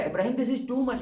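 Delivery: "too much" thrown up high in exclamation; exasperated exclamation; exclaiming. Retold or imitated. God's words quoted again, heightened.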